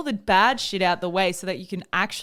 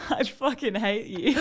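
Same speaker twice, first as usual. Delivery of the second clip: laughing; 5 dB quieter than usual. Real, not acted. Laughing at the pun.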